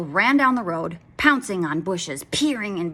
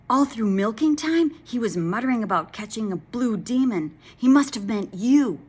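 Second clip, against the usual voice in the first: cow voice; 4 semitones higher, 5 dB louder than usual. Acted. Cow warns dragon.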